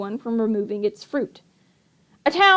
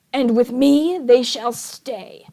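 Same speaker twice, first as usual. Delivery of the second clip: insistent; slower than usual. Acted. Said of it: "Count Olaf insisted".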